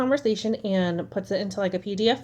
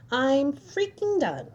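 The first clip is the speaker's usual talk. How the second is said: fed up; 5 semitones higher, slower than usual. Real, not acted. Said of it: "I'm done".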